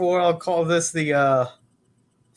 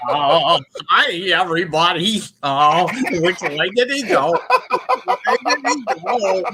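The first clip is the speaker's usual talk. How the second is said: louder, rising mock Chicago accent; 5 semitones higher, 5 dB louder than usual. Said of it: "is the Chicago accent".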